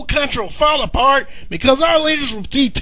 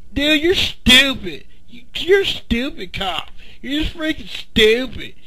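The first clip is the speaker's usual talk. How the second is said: muttering; 6 dB quieter than usual. Acted. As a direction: mutter it under your breath. Mumbling insults at the cop.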